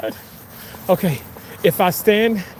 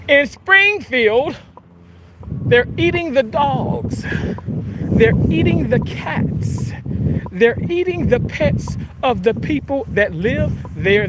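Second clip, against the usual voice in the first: slow, higher rally delivery; drawn-out politician cadence; rally speech voice; 4 semitones higher, slower than usual. Retold or imitated. Mimicking a politician's rally claim.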